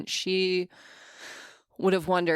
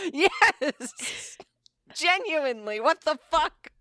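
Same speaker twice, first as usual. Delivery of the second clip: high laughing disbelief; 10 semitones higher, slower than usual. Real, not acted. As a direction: crack up in disbelief.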